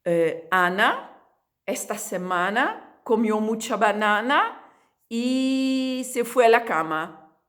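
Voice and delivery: "Ana... banana... cama" said slowly, a fully open; slow, careful practice sentence. Shown as a demonstration. Teacher modelling the drill sentence for students. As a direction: open every a in "banana" deliberately. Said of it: "Olha a frase".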